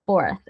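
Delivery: "Fourth." ending with the tongue between the teeth. Shown as a demonstration. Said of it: "vai pôr a língua entre os dentes e vai soprar".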